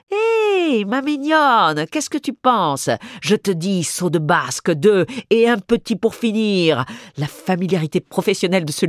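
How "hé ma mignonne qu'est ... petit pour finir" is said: lightly voiced cordial ballet master, high opening hail; breezy, familiar, slowed and sung-out; a hint of a jovial southern dance teacher; Italian ballet master. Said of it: "la voix cordiale d'un maître de ballet italien".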